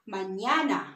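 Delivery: Mañana carefully said "mah-NYAH-nah"; careful Mañana with a long ña; model pronunciation. Shown as a demonstration. Teacher repeating the word for learners, careful Mañana with clear ña. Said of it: "Can you say it?".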